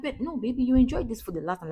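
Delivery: high, pleading protest; pleading disbelief. Retold or imitated. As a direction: coax the child in disbelief. Pleading with picky child.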